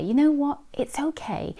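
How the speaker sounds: gentle reassurance, softening at the end. Acted. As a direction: gently soothe your inner critic. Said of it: "just gently say".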